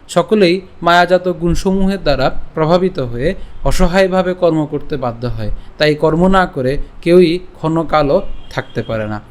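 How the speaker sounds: slow, measured reading; translation read aloud. Shown as a demonstration. Teacher reading the verse translation to learners, slow measured reading. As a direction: read the translation deliberately, phrase by phrase.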